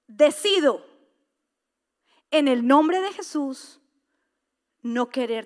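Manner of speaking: slow, loud proclamation; preacher's forceful vow; loud declaration. Acted. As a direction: declare it boldly.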